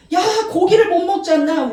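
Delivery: high mock grumble; complaining people. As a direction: grumble like a hungry crowd. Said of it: "원망, 불평".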